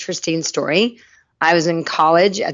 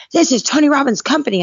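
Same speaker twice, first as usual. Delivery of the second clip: much higher, mock-indignant outburst; worked-up young man; 9 semitones higher than usual. Man objecting to a stranger at dinner, mock worked-up. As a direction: imitate someone getting all worked up. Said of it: "you know, calm down".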